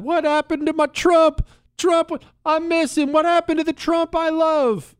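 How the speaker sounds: high, mock-weepy wail; tearful Trump fan. Host imitating an upset Trump supporter, high mock-tearful wail. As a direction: wail it loudly in a high put-on voice. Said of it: "dabbing your tearful eyes".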